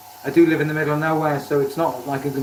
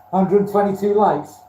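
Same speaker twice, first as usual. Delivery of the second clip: auctioneer call; 5 semitones higher than usual. Pretend. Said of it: "do I sound like an auctioneer".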